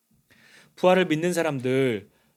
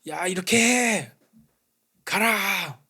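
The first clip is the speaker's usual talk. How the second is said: slow, higher, barked "야, 이렇게 해!"; stern commander; 5 semitones higher, much slower than usual. Pretend. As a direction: play a bossy master ordering people about. Mock stern order from Jesus.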